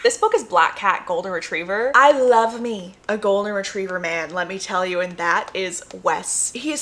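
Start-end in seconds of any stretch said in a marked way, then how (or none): none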